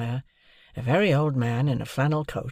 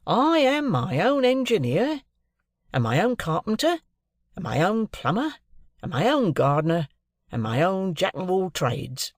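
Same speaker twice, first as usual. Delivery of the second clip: proud Wemmick voice; 6 semitones higher than usual. A narrator's reading. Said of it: "said Wemmick, in acknowledging my compliments".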